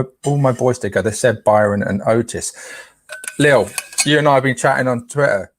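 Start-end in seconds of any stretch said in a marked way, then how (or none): 3.4-5.5 Cockney-style "Twitter" with the middle t dropped; Cockney accent. Real, not acted. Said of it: "Like a Cockney geezer".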